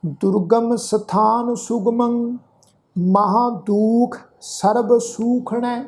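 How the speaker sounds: slow, sustained sacred verse; measured Gurbani recitation; scripture recitation. Shown as a demonstration. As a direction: recite slowly, holding the long vowels.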